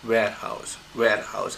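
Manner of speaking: "Warehouse" falling to a low "house"; low final syllable. Shown as a demonstration. Teacher showing how a statement closes, "house" pitched low. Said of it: "House is low over here".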